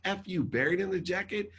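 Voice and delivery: high-pitched, incredulous retort; retold outrage. Son answering his dad's burial remark, outraged. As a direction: throw it back in disbelief.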